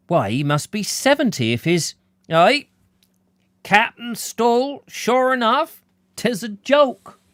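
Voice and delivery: put-on high, loud old countryman's disbelief; surprised rustic outburst. Old villager amazed at the team list, loud and high. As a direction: exclaim at the impossible name.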